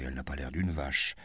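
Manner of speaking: duke's mock plaintive defence of the guest. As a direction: whine a mild objection. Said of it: "ajouta-t-il d'un air plaintif".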